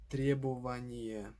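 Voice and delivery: "требование" stressed on ТРЕ; ТРЕбование, stressed like its verb; stress on first syllable. Shown as a demonstration. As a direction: hit ТРЕ in "требование", rest unstressed. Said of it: "preserves the stress of the verb".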